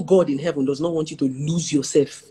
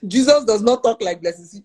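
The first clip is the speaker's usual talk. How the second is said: laughing; 4 semitones higher, 4 dB louder than usual. Real, not acted.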